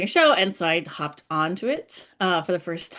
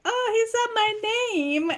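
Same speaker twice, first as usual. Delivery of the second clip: excited. Retold or imitated. Excited fan recalling being named.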